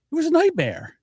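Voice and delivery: dramatic. Real, not acted. Exaggerated complaint.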